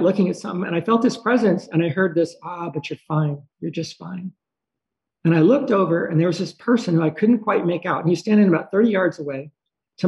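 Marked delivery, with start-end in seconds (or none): 2.4-4.3 soft, soothing quoted voice; gentle reassurance. Retold or imitated. Dream presence reassures the watching dreamer, gently. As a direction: trail off softly, reassuring.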